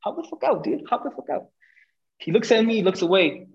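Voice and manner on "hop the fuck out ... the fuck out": mock yelled order. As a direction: imitate yelling at a driver, pitched way up. Retold confrontation, ordering driver out.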